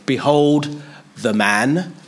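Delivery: slow, drawn-out announcement; slow proclamation. Retold or imitated. Pilate shows Jesus to the crowd, slow and solemn. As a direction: present him slowly, word by word. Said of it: "First he said".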